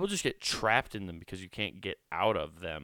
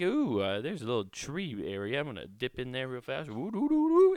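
carefree skier; 5 semitones higher than usual. Retold or imitated. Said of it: "I was one of those guys who would kinda like".

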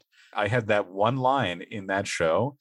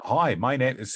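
tentative Australian attempt, slightly higher; Australian accent; 4 semitones higher than usual. Shown as a demonstration. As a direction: try out an Australian accent, then break off. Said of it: "Will you try an Australian accent?".

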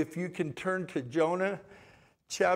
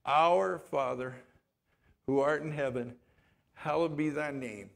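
prayer recitation; 2 semitones lower than usual. Acted.

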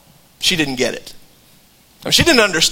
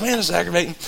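muttered aggravation; 7 dB quieter, faster than usual. Retold or imitated. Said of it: "thinking to myself".

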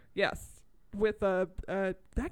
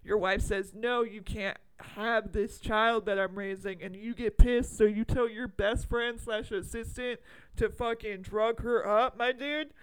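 bro voice. Acted. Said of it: "doing the bro voice".

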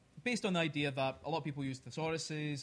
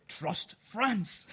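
mock Cockney; 4 semitones higher, 5 dB louder than usual. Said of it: "do it in a Cockney accent".

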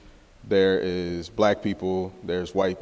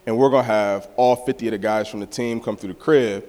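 hyped announcement; 3 semitones higher, 5 dB louder than usual. Retold or imitated. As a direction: pitch it to the guys excitedly. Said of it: "I was like".

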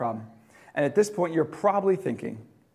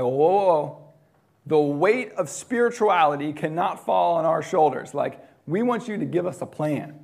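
disciples freaking out, a bit louder; hammed-up alarm, pleading for a plan; mock panic; 4 dB louder than usual. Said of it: "the disciples start freaking out".

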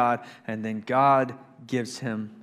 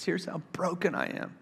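honest lament; 3 semitones higher, 4 dB louder than usual. Retold or imitated. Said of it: "he says".

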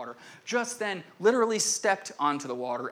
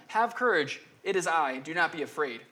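tag; 4 dB louder than usual. Retold or imitated. Jesus calling to terrified disciples.

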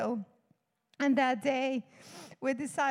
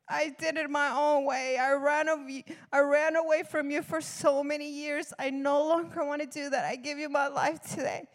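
raised, impassioned retold prayer; pleading testimony, a little louder; earnest surrender; 4 dB louder than usual. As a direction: declare it to God with conviction. Re-enacting her surrender prayer.

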